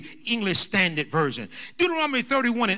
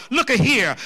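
louder country-style call for attention; country talk; 2 semitones higher, 6 dB louder than usual. Acted. Preacher putting Jesus's "lo" in country terms, country talk. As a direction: grab the ear in country talk. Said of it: "y'all from the country".

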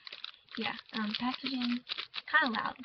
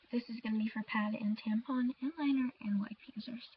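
hoarse, voice almost gone; whispering through a lost voice; raspy whisper. Real, not acted. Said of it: "I'm losing my voice".

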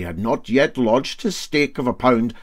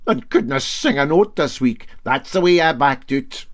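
Brodick man gloating; 3 semitones higher, 4 dB louder than usual. Acted. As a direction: crow over the captain.

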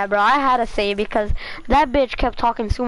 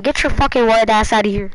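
retold insult; 5 dB louder than usual. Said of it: "I had to be racist back".

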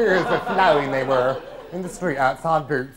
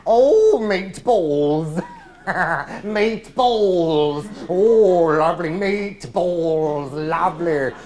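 camp delight; much slower than usual. Acted. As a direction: swoon over the dish. Mock delight at meatballs.

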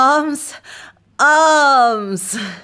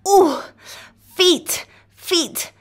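high, giggly pleading to stop; playful protest; 7 semitones higher, slower than usual. Acted. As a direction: protest while being tickled. Coco tickles her feet.

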